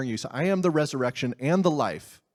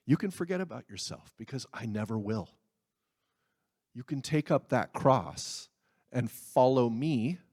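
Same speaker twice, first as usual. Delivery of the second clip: soft, lower, intimate reassurance; tender voice of Jesus; 3 semitones lower, 3 dB quieter than usual. Retold or imitated. Jesus assuring the listener of his love, tender and soft. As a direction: speak it close, gently, like a promise.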